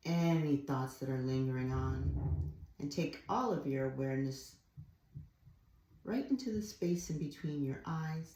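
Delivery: calm guiding voice, phrase by phrase; guided meditation. Real, not acted. Yoga teacher guiding attention to the third eye, calm guided meditation.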